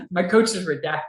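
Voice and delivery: amused retelling, laughter in the voice; laughing. Retold or imitated. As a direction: quote it through a laugh. Laughs at own censored name.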